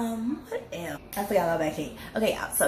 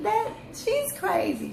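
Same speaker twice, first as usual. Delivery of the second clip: high-pitched laughing words; giggling through it; slower than usual. Real, not acted. Repeated crazy.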